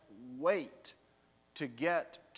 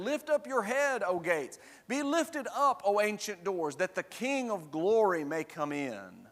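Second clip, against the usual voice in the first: higher-pitched proclamation at the start, settling toward the end; ringing demand; 4 semitones higher, 3 dB louder than usual. Acted. Company approaching the city gates demands entry, proclaiming. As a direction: call it out as a formal demand. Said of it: "a demand that you open the gates".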